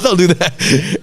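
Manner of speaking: laughing protest. Retold or imitated. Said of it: "And I go".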